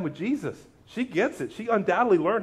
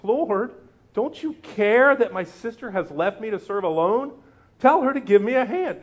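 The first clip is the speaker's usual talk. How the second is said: Martha complaining, higher and pushy; whiny demanding sister; a needy plea to Jesus; voicing Martha; 4 semitones higher than usual.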